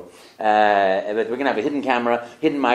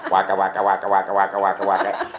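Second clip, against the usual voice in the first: imitating Pac-Man; 5 semitones lower, faster than usual. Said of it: "the only games that I ever played".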